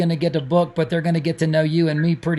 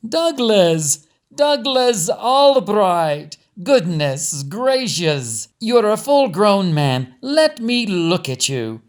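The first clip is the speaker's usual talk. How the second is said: put-on loud, high, slow gushing older lady; drawn-out, loud delighted greeting like a fussy family friend; gushing Pearline; 4 semitones higher, 5 dB louder, much slower than usual. A narrator's reading. Pearline gushes at Doug.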